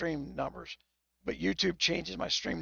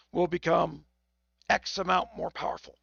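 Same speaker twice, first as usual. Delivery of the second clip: speech broken by hiccups; hiccuping between words. Real, not acted. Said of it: "Now I'm getting the hiccups again".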